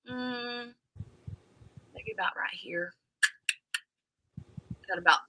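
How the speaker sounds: unvoiced whispered aside; soft whisper while measuring. Real, not acted. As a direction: whisper it to yourself. Showing hair length, whispered.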